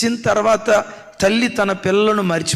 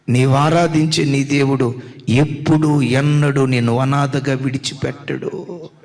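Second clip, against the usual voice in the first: solemn assurance; 5 semitones lower than usual. Real, not acted.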